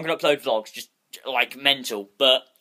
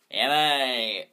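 mock chav; 3 semitones lower than usual. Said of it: "you know how chavs".

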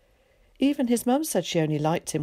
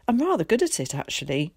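mild pride; faster than usual. Acted. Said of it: "he continued proudly".

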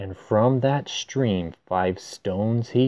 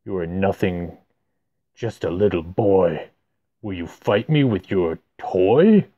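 low giant sneer; 3 semitones lower than usual. Acted. Giant mocks boy.

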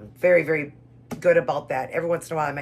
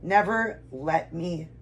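emotional prayer; 2 semitones higher, slower than usual. Real, not acted. Reader pledges devotion to the Lord, emotional prayer. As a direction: read it as a heartfelt pledge, with long pauses. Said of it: "I'm sorry, God".

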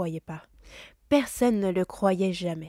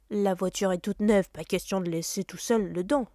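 curt uncle. Acted. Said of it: "trancha monsieur Dursley".

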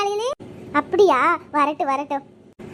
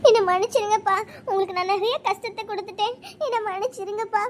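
crying as she begs forgiveness; tearful apology. Acted. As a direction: plead with your father through tears. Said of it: "ஏம்மா அழுகுற?". (அழுதபடி மன்னிப்பு கேட்பது)

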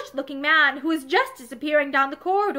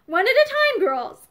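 lightly laughing call, pitched higher; a mild laugh running through the words; 7 semitones higher than usual. A narrator's reading. Miss Tebbs laughing at the crowding girls, lightly amused call. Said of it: "laughed Miss Tebbs".

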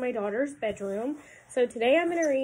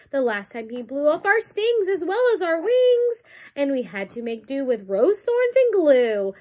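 high, louder bee chorus; buzzing bees; 4 semitones higher, 4 dB louder than usual. Acted. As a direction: complain like tiny bees. Reading aloud to children.

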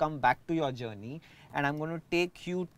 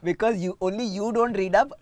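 talking through a laugh; amused, louder, laughing as you speak; 3 semitones higher, 5 dB louder than usual. Real, not acted. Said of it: "Sorry, I'm laughing".

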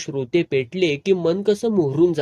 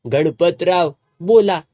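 put-on drunk call out; 3 semitones higher, 7 dB louder than usual. Drunk boss calls out.

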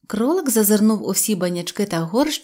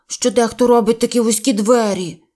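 a touch of sulky anger, a bit louder; understated cross bear; mild grumble; 2 semitones higher, 5 dB louder than usual. Acted. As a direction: blame the door, grumbling. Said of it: "сердито сказав Пух".

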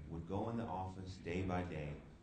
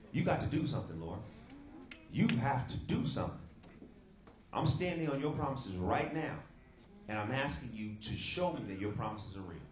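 urgent prayer; 4 semitones higher, 3 dB louder than usual. Retold or imitated. Retold bathroom prayer to God.

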